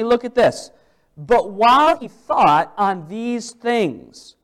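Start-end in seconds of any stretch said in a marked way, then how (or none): 1.2-4.3 slow, deliberate reading of the verse; scripture reading. Acted. Preacher to congregation, slow scripture reading. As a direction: read the Bible line slowly and weightily.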